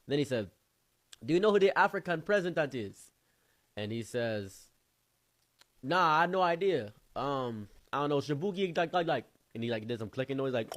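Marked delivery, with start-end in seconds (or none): 1.2-3.1 raised, louder quizzing voice; imitating the friend. Friend quizzes the men on African history, raised voice. 5.8-9.2 higher, louder fumbling answer; mock clueless guy. Mocking the man who fumbles the answer, higher and louder.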